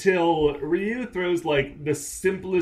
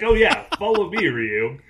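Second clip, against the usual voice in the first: mock breezy mentor; 4 semitones higher, 6 dB louder than usual. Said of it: "So he's like".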